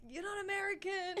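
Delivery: high-pitched mock telling-off, laughing; giggly imitation of a scolder; mock scolding yell. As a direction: imitate being yelled at, without real volume. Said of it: "I used to get yelled at".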